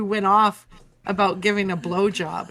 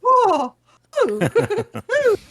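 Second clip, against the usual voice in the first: high mock moans; hammed-up moaning; 11 semitones higher, 5 dB louder than usual. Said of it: "then she was all".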